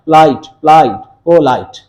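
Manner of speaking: "पोलाइट" repeated in separate beats, the last split in two; syllable demonstration. Shown as a demonstration. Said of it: "इसके अंदर भी दो हिज्जे".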